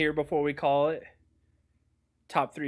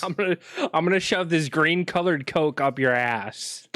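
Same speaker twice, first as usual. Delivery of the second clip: raised, higher mock threat; mock angry threat; 4 semitones higher, 5 dB louder than usual. Friend mocking the brother-in-law story with a loud threat. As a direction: bellow the threat as a joke.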